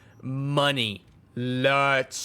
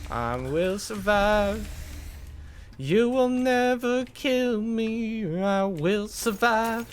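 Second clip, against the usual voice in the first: mock-defiant proclamation; 6 semitones higher, slower than usual. Taunting enemies mid firefight.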